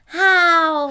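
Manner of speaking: Hau-ruck-Ruf beim Heben; effort grunt. Acted. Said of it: "Wir sagen alle „Hau ruck". (angestrengtes Hau-ruck)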